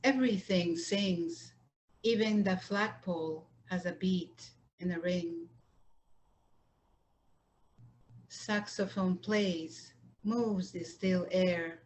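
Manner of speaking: measured poem recitation with line-end pauses; unhurried poet's reading, pausing between phrases; poetry reading. Acted. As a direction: read it line by line, letting each phrase settle. Poet reads her poems.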